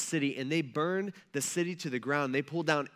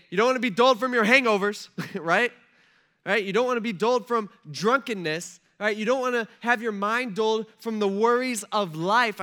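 louder, higher preaching with a laugh in it; rising exhortation; 7 semitones higher, 8 dB louder than usual. Real, not acted. Pastor urging the congregation away from hangovers, loud and high. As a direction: build up and drive the point home.

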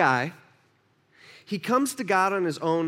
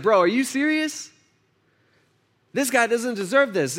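incredulous rebuke; 6 semitones higher than usual. Acted. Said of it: "he's like".

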